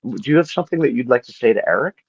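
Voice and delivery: high, soothing counselor; therapist voice. Retold or imitated. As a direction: play a gentle therapist. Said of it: "had a therapist be like".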